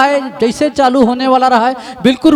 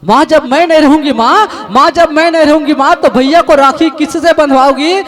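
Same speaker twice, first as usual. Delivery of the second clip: put-on louder, urgent begging as the unborn girl; desperate crying plea; 2 semitones higher, 3 dB louder than usual. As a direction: plead with the mother, voice straining. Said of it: "तड़प तड़प के अंतिम में हाथ जोड़ के". (रोती हुई ज़ोरदार विनती)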